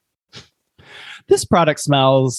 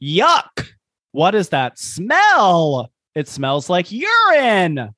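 higher, slow disgusted yell; disgusted husband; 5 semitones higher, slower than usual. Acted. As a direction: read the husband's caps line grossed out.

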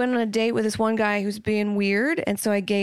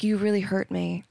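calm hurt tone. Shown as a demonstration. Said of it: "Just very calm, like".

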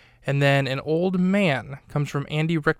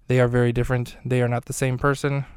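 firm, slightly raised voice; a bit louder; faster than usual. Real, not acted. Host stressing how the twin sisters differ, a bit louder. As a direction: speak up slightly, turned into the mic. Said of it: "maybe just got a lot louder there".

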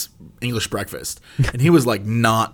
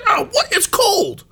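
dad's surprise; slower than usual. Retold or imitated. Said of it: "He's like".

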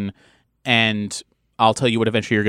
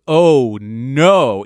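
mock dread; 7 dB louder than usual. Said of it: "the meta you goes".

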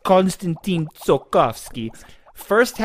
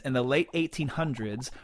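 usual speaking voice

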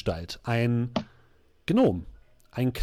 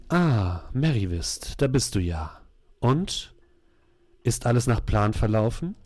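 lower, dark and commanding; dark sorceress voice; 3 semitones lower than usual. Acted. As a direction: speak like a sinister mistress. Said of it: "in einer düsteren Stimme".

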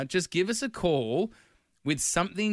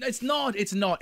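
reassuring; 7 semitones higher than usual. Real, not acted. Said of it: "It is not embarrassing".

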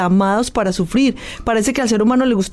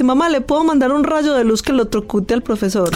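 laughing. Retold or imitated. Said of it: "mi hijo me dice".

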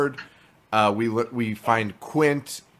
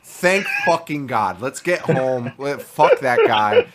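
emphatic relief; 3 semitones higher, 4 dB louder than usual. Acted. Voicing the survivor glad Quint died, emphatic relief. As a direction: act out relieved contempt, hitting each swear. Acts what Dreyfuss should have said.

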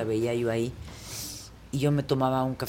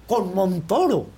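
grand exclamation; 4 semitones higher, slower than usual. Retold or imitated. Acts Pita's grand reaction.

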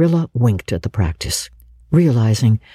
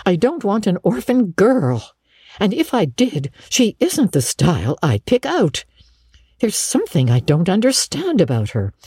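higher, emphatic woman; decided Marilla figure; 5 semitones higher than usual. Acted. Marilla refusing Matthew an orphan girl, decided. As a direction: lay it down firmly, slightly high.

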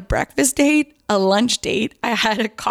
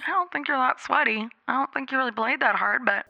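soft, higher aside to herself; hushed inner comment; thought kept private; 4 semitones higher, 7 dB quieter than usual. Retold or imitated. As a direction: say it under your breath, as an unspoken thought. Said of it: "I kept that to myself".

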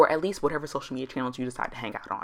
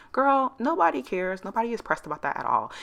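sassy dismissal; 8 semitones higher than usual. Real, not acted. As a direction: wave it off with attitude. Dismissing worries about old posts.

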